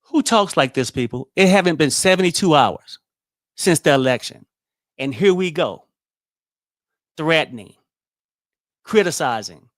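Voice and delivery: loud, indignant outburst; outraged rant. Real, not acted. Vlogger fuming at viewers over the threatening clip, loud outrage. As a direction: let the anger spill out loud.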